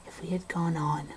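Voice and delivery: hushed, eerie storytelling, half-whispered in places; spooky story narration. Acted. Passing time while lost in the woods, eerie narration. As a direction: tell it like a campfire ghost story.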